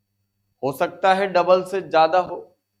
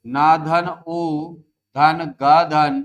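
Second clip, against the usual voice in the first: slow syllable breakdown; 4 dB louder, much slower than usual. Shown as a demonstration. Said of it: "तोड़ो".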